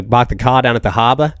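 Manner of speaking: lightly put-on Boston accent with dropped r's; a hint of mock Boston accent. Shown as a demonstration. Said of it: "Boston, you got Boston".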